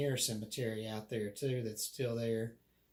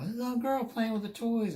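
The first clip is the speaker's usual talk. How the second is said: put-on high, louder little-girl voice; upset child; 11 semitones higher, 4 dB louder than usual. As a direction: insist like a small scared child. Child answering godmother.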